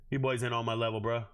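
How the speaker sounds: ordinary talk, nothing marked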